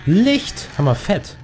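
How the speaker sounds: high joyful shout; relieved cry of delight; excited cry. Real, not acted. Finds light in the dark.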